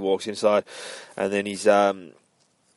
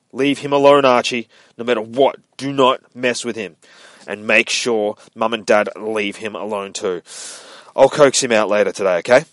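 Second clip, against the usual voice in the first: louder, firm warning; stern warning; 7 dB louder than usual. Acted. Jughead warns Archie off his dog, firm and louder. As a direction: warn him off, firm and insistent.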